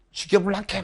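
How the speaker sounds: a hint of Gyeongsang dialect; Gyeongsang imitation. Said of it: "경상도 분들 아시죠". (경상도 사투리 흉내)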